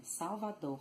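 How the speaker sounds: "Salvador" with an audible throaty final R; full final R. Shown as a demonstration. Teacher showing what Bahians avoid, "Salvador" with sounded throaty R. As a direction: finish "Salvador" on a clear h-like R. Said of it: "So instead of saying".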